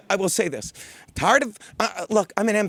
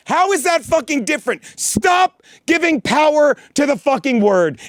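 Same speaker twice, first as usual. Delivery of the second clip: furious demand to stop; angry rant; 5 semitones higher, 3 dB louder than usual. Real, not acted. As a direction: hammer it home with anger. Ranting at critics.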